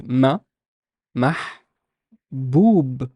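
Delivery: "mah", pause, "boob" with a long oo; syllable-by-syllable demo. Shown as a demonstration. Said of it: "if I want to put the vowels".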